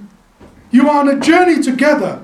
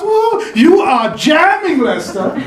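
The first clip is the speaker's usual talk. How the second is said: slow, delighted woo; playful praise; admiring whoop; 4 semitones higher than usual. Real, not acted. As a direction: hype up a friend. Praising a colleague's stole.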